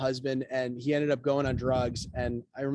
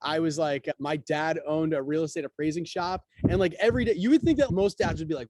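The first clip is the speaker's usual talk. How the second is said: normal talking voice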